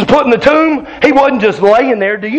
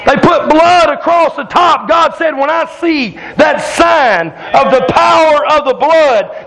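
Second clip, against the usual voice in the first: fiery preaching; 2 semitones higher than usual. Acted. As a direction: preach it out to the whole congregation. Preaching at full force.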